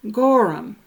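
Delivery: "Gorham" as GOR-um, a vowel between R and M; hidden vowel sounded. Shown as a demonstration. Lecturer pronouncing G O R M, hidden vowel in "Gorham". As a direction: add a short uh before the final m of "Gorham". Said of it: "is pronounced".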